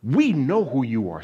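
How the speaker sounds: loud, slow demonic declaration; a slow, loud demon boasting; menacing demon. Retold or imitated. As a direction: drag it out like a demon that knows. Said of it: "what the demon says".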